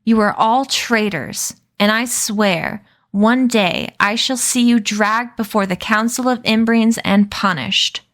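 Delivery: stately outraged oath; furious vow. Acted. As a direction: swear vengeance with contempt. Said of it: "He pointed his wounded paw".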